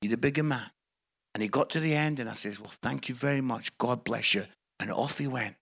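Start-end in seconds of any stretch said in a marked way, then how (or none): 0.0-0.7 quiet, calming restraint; God's voice. Acted. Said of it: "But God's like". 2.6-4.5 low, soft, measured thanks; restrained politeness. Acted. Restrained polite reply to the minister.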